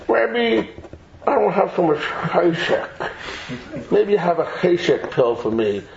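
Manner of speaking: low, listless pupil voice; unmotivated student. Acted. Student telling the rabbi he lacks cheshek, listless low voice. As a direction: drop low as if lacking all drive.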